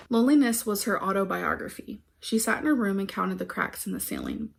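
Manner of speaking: measured reading of a personal poem; poem recitation. Acted. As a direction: recite line by line with pauses between. Reads her poem aloud.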